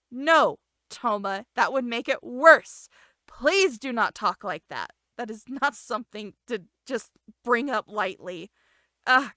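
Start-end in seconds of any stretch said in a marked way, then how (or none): 0.1-7.8 heroine begging Toma to stop talking like that, pleading. Acted. Voicing the girl pleading Toma.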